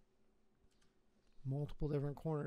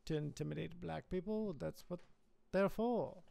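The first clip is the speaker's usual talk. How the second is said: imitating a British commentator's accent. Streamer mocking the British narrator in a British accent. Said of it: "in his British voice".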